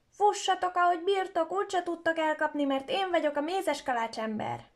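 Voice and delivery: high, loud sing-song taunt at the chasers; taunting shout. Acted. Gingerbread boy taunting the old woman and husband, loud cheeky shout. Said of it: "aki azt kiabálta".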